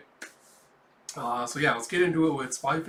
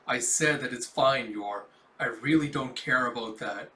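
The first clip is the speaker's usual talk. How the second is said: lowered, cold firmness; dead-eyed coldness; 4 semitones lower than usual. Acted. Melinda silencing Yor's protests, dead-eyed and cold. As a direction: shut the subject down in a lower voice. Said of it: "her eyes just going dead as she goes".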